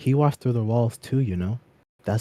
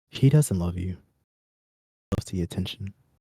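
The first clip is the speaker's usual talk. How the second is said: voiced stage half-whisper, secretive. Running the game, the narrator gives the mirror reflection's line in a half-whisper. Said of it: "As the reflection whispers".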